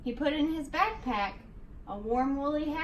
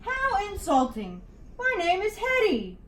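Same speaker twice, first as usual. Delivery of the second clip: higher, louder affronted monster voice; insulted monster; 5 semitones higher, 4 dB louder than usual. A narrator's reading. Hetty the monster insulted by George, affronted. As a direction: snap back, deeply offended. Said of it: "with the angriest growl".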